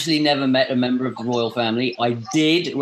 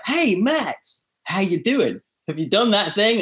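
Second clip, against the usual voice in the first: imitating a cheery colleague, much higher; mock-bright check-in from the organiser, pitched up high; chirpy email nudge; 8 semitones higher, slower than usual. Max mimics the organisers' cheerful reminder email in a high voice. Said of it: "and it'd be like".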